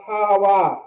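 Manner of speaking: ha-ha-wa, each syllable spoken separately; teacher sounds out ha-ha-wa syllable by syllable; pronounced ha-ha-wa. Shown as a demonstration. Teacher shows the class how to say ha-ha-wa. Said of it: "This is pronounced".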